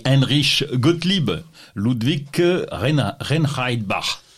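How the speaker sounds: put-on slow, halting stab at a Munich German accent; attempted Munich accent. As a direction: lightly attempt a Munich accent, drawing out the name. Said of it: "j'ai essayé de le dire avec l'accent munichois".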